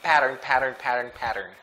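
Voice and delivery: pattern repeated with a D-like flap; American flapped T in each pattern; glided T. Shown as a demonstration. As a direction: drill "pattern" as "padern". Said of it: "It's like there's D".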